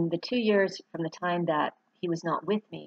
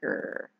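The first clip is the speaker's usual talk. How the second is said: purring Gur; 6 dB quieter than usual. Retold or imitated. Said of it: "he'd say it like a purr".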